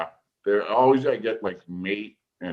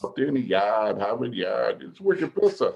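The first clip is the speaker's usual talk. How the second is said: hammed-up Boston accent. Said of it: "the accent that Sean carries".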